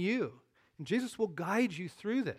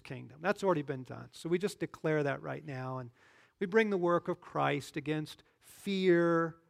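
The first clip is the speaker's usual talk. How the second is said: preaching prayer. Real, not acted. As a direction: lead the brothers in a forceful prayer. Leads the group in prayer.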